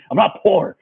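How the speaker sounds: high voice dissolving into laughter; mock wailed protest. Bleeding kid who couldn't let it go, high mock protest. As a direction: plead your case, then crack up.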